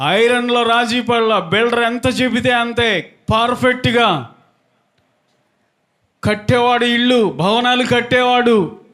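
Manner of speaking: high, ringing sermon delivery on a held note; preaching. Real, not acted. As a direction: preach it out, stretching phrase endings. Preaches a story.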